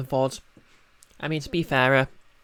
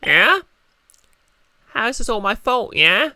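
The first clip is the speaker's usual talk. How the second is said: catgirl voice; 8 semitones higher, 6 dB louder than usual. Acted. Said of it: "give, uh, Gumshoe a Catgirl voice".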